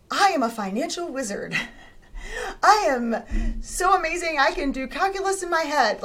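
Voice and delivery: high, bragging overconfident voice with a laugh; mock grand boast. Overconfident self-talk she could never believe, hammed up. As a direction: ham up an absurd self-hype. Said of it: "that would have been way too big of a jump".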